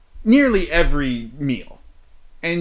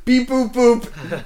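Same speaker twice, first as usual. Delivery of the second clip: high robot beeping; robot beeps; 8 semitones higher, 4 dB louder, slower than usual. Pretend. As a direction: beep like a toy robot. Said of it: "robot, robot Dane?".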